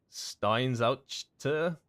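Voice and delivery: put-on a mild, slowed-down German accent on the name. Streamer reading a follower's name in a light German accent. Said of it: "I tried to put on a German accent".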